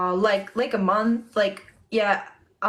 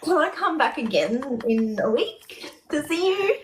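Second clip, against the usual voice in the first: retold pleading; 3 semitones higher than usual. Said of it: "I was like".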